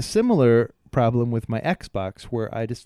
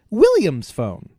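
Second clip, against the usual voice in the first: slow, loud, deliberate; slow recorded phrase; 7 semitones higher, 8 dB louder, slower than usual. Retold or imitated. Recording the car's voice tag, slow and deliberate. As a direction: spell it out slowly. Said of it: "I said".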